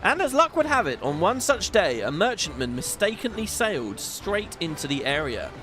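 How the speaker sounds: lightly voiced gruff sea captain; a hint of a stately old admiral; Chief's voice. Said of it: "Something about doing that guy's voice".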